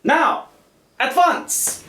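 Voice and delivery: loud, high barked orders; commanding shout. Acted. Captain ordering the prisoners out, loud barked commands. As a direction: drive them out with a shouted command.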